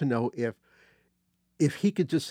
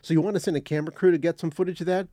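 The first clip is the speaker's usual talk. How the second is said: quick first pitch; faster than usual. Retold or imitated. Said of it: "let me say that again".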